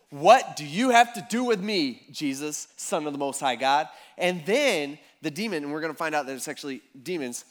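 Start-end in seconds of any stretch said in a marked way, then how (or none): 0.1-3.9 louder, imploring cry, held back; mild retold yell. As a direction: call out as if yelling to Jesus. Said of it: "he yells out in a loud voice".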